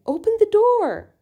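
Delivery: teacher acting out Sarah's command; acted command. Shown as a demonstration. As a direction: call it out like a demand.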